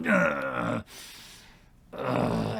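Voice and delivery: imitated "ugh" of fading pain; pained groan. Game master showing a player the pain, groaning. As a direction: groan as if kidney punched.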